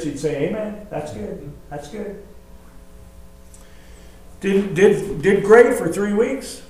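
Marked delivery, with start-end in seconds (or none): 0.5-2.2 very soft, held-back amen; quiet restraint. Retold or imitated. Church aunt restraining herself for a prize, quiet approval. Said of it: "quietly in her spirit".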